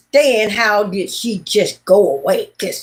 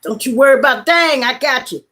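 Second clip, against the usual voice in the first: reassuring the kitten; 4 semitones higher than usual. Retold or imitated. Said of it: "I said".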